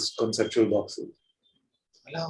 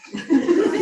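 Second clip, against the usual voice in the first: bright high burst of laughter; real laugh. Real, not acted. Teacher laughing at his own question.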